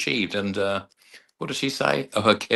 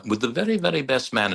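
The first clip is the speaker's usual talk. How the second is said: lightly put-on Jean Brodie accent, pitched up; 4 semitones higher than usual. Officiant addressing the giggling best man, hint of Jean Brodie accent. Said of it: "in a Gene Brody accent".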